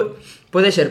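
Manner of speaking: coughing, drink went down wrong; sputtering through a cough; choking on a drink. Real, not acted. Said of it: "se me ha ido por el otro lado".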